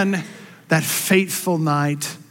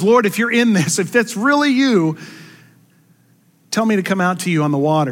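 calling out; 4 semitones higher than usual. Acted. Peter paraphrased, pleading.

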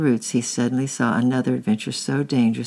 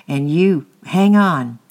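loud, higher shouted order; 4 semitones higher, 8 dB louder, slower than usual. A narrator's reading. Man in river shouts to Francis to hang on. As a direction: shout it to hold on tight. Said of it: "he shouted to the boys on the bank".

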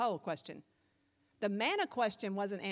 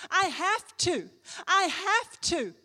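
acted insistence; 7 semitones higher, 6 dB louder, slower than usual. Acted insistence after a gasp.

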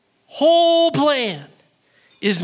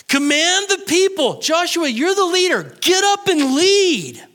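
high-pitched, forceful rallying order; commanding; 7 semitones higher than usual. Acted. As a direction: drive the leader to his feet, pitched well up. God's order to Joshua, acted.

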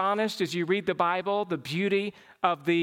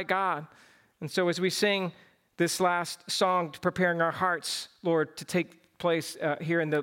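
closing prayer; 3 semitones lower than usual. Real, not acted. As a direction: pray over the church, gentle and earnest.

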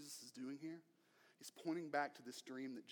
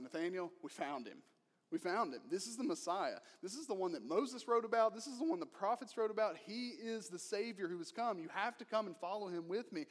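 louder, higher, rushing with excitement; excited; 4 semitones higher, 5 dB louder than usual. Retold or imitated. Philip tells his friend Nathanael he found the Messiah, excited. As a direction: blurt it out like breathless good news.

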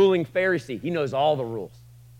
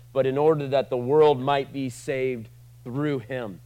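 scripture recitation; 4 dB louder than usual. Acted. Reciting John three sixteen.

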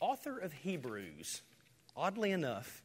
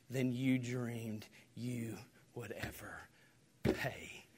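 whisper; 3 dB quieter, slower than usual. Real, not acted. Whispered line end.

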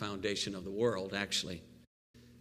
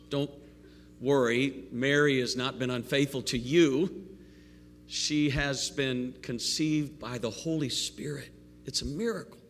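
excited angel; 6 semitones higher, 4 dB louder than usual. Retold or imitated. Pastor voices the angel excitedly.

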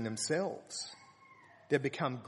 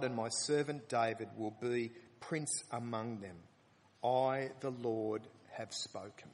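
proclaiming scripture; 2 semitones lower than usual. Acted. Preacher proclaiming the promised shepherd to the congregation, fading. Reading the prophecy aloud.

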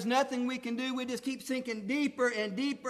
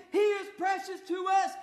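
shouted praise; 7 semitones higher than usual. Acted. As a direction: cry it out to the church. Climactic shouted affirmation.

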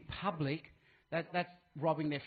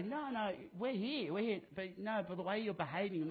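insistent bank voice; 4 semitones higher than usual. Retold or imitated. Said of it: "most banks will say".

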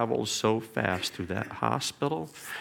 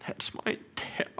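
weak whisper; 6 dB quieter than usual. Retold or imitated. Son's first words after ventilator.

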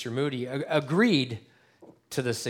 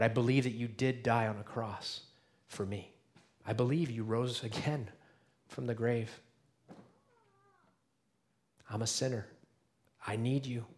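softer, lower prayer voice; model prayer; 3 semitones lower, 4 dB quieter than usual. Shown as a demonstration. Pastor models a quiet prayer for the congregation. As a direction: pray it quietly and humbly. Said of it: "You can say it right now".

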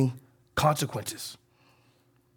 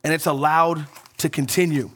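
mild disbelief. Retold or imitated.

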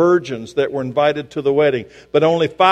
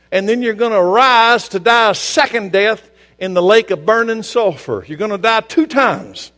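preaching at full force; 7 semitones higher, 5 dB louder than usual. Real, not acted.

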